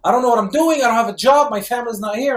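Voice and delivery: high, loud re-enacted despair; imitated distraught yelling. Man in crisis questioning the sky, re-enacted anguished yelling. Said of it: "I was crying and yelling at the sky".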